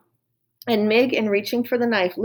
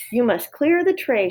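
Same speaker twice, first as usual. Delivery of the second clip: shouted; 4 semitones higher than usual. Acted. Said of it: "shouted cook".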